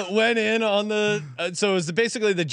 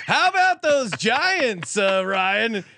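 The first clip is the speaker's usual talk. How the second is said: mock taunt; 4 semitones higher, slower than usual. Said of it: "Hoops just starts right in".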